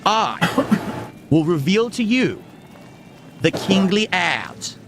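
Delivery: slow grand king voice; booming warrior king. Acted. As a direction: proclaim it like royalty. Streamer playing the king persona.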